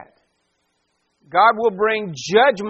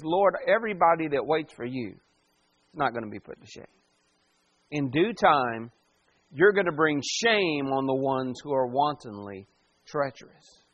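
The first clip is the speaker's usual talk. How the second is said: snapping back to calm; 5 semitones lower, 4 dB quieter than usual. Retold or imitated. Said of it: "he almost snaps back into reality".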